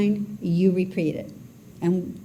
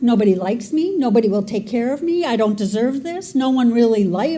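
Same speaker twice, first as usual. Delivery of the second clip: inner critic spiraling; 2 semitones higher than usual. Acted. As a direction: let the negative self-talk snowball and press harder. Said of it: "how vicious our storyteller can be".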